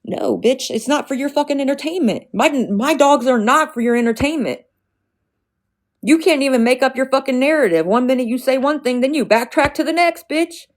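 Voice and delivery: loud, high, heated yelling; furious shout. Real, not acted. Streamer yells back at the haters mocking her dogs, furious and loud. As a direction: blow up at them, real anger.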